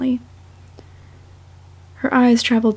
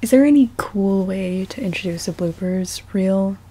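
whispered aside; 3 semitones lower than usual. Real, not acted. Musing aside to herself.

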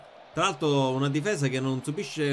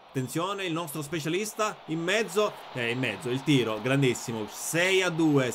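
breathless italian goal commentary. Acted.

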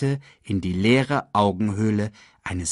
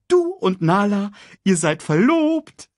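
full-throated singsong; 12 semitones higher, 6 dB louder than usual. A narrator's reading. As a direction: proclaim it singingly at the top of your voice. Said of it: "sang Sasu aus voller Kehle".

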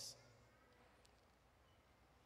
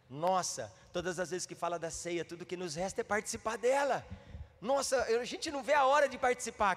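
eager church sister; 4 semitones higher than usual. Retold or imitated. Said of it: "eu ouvi uma irmã dizer".

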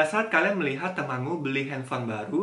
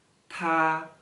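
slow reading; much slower than usual. Shown as a demonstration. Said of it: "Sekali lagi".

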